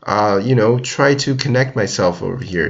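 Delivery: imitating a panicky player, starting high on "Oh no"; mock panic. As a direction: squeak out the worry, then settle. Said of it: "You see, he's not freaking out".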